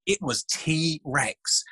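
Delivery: slow, drawn-out reveal of the name; dramatic reveal. Retold or imitated. To the kids at his dinosaur show, a very slow dramatic reveal. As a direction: savour the punchline very slowly. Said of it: "And I, and I say".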